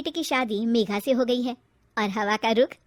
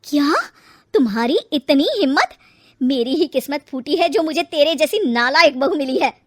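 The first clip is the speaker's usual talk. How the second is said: outraged retort; 2 semitones higher, 7 dB louder than usual. Acted. Mother-in-law outraged at insolence.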